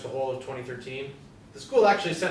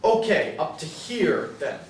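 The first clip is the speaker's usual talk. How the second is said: sharp outburst; 4 semitones higher, slower than usual. Acted. Angry hand gesture, bangs roof.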